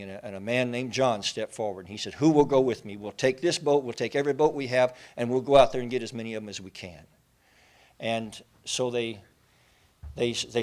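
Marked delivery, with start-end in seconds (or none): 2.1-7.1 rallying call. Retold or imitated. John rallying men for rescue.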